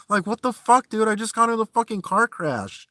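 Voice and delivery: high, incredulous outburst; can't believe this guy, let it spike up; outraged. Real, not acted. Vlogger fumes at the troll's complaint, high outrage.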